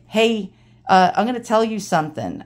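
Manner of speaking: lightly imitated old Brooklyn straight talker; Ronnie's New York accent. Dad's friend confides a warning, light New York accent. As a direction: put on a touch of old-timey New York. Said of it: "total New York accent".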